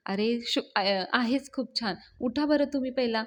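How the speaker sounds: mildly excited urging; a touch of eager excitement. Acted. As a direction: urge them up, a little keyed up. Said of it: "Avni खूप excited असते".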